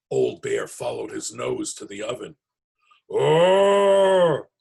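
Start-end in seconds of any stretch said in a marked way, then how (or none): 3.1-4.5 surprised oh. Acted. Bubba Braina greets the bear.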